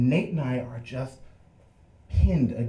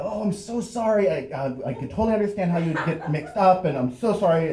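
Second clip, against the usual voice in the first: higher-pitched, mock-earnest apologizing; effusive apology; 5 semitones higher, faster than usual. Boys placating the cop, mildly overdone apology. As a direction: lightly gush with apology, stumbling midway.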